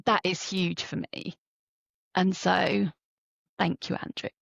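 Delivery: holding back tears while thanking him; real emotion welling up, voice dropping to a breathy hush; choked up. Real, not acted. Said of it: "I'm gonna get emotional now".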